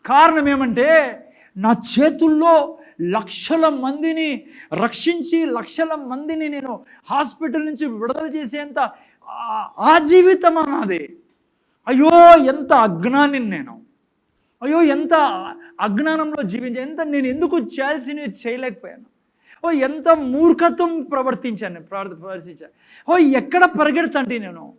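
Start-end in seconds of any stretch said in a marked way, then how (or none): 1.6-11.2 mock wistful regret. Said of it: "ఏడుస్తారు చాలామంది క్రైస్తవులు". 11.9-24.7 a hammed-up cry of remorse; mock wailing regret. Preacher acting a Christian's regret in heaven, mock wailing. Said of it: "ఏడుస్తారు చాలామంది క్రైస్తవులు".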